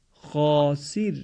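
heavy, drawn-out long آ in خاسر; slow خاسر, Arabic-style thick آ after خ. Shown as a demonstration. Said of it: "البته مقداری درشتر از آی فارسی میباشد".

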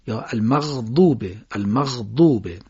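المغضوبه with a soft, stretched غ; Arabic غ in المغضوبه, soft and long; soft drawn-out ghayn. Shown as a demonstration. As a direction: glide the غ in المغضوبه gently.

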